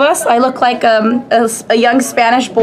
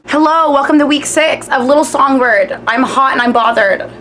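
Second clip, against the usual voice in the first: showy, over-played intro; hammed-up hot-and-bothered host; put-on greeting. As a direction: ham up the welcome. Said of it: "Just kidding".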